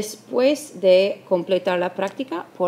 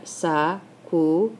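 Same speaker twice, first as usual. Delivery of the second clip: "sacu-" as two separate syllables, sa and cu; slow, separated syllables in "sacu-"; counting syllables. Shown as a demonstration. Teacher counting syllables, "sacu-" broken in two. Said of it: "a contar".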